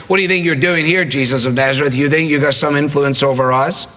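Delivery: lightly voiced confrontational challenge; challenging. Demon challenges Jesus of Nazareth, a mildly confrontational tone. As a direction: challenge him, sizing up his authority. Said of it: "sort of spirit of challenge".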